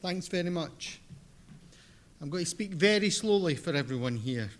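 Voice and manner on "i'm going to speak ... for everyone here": thick Scottish accent, speaking deliberately; strong Scottish lilt throughout; broad Scottish accent. Real, not acted. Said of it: "my very thick Scottish accent".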